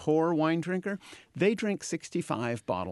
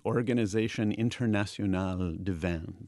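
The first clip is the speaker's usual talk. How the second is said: French vowels on the organisation's name; French pronunciation; 4 semitones lower than usual. Shown as a demonstration. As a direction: say it with a French accent. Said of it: "if I spoke French, um, or had an accent".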